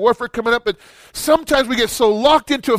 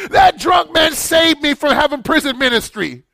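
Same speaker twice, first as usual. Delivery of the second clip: laughing; 5 semitones higher than usual. Real, not acted. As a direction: let a laugh run through it. Laughs at own story.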